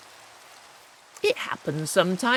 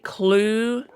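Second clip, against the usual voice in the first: slowly sounding out; 2 semitones higher, much slower than usual. Shown as a demonstration. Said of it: "but long U".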